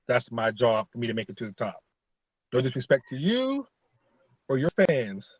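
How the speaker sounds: trash talk promo, half-hearted; polite mock promo; wrestling promo. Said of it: "cut a promo on Tad Jarvis".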